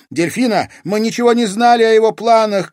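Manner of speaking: high, loud urgent shout. Acted. Katerina shouting to Delphina across the hall. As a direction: call across the room, pleading. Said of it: "крикнула Катерина девушке".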